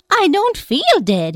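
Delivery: high, slow, eerie insistence; a ghost who won't accept it; high drawn-out corpse voice; dead man protesting. Acted.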